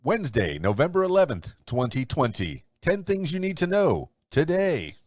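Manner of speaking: announcer-style headline read with emphatic quote marks; news read. Acted. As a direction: read the day's top stories like a radio newscaster.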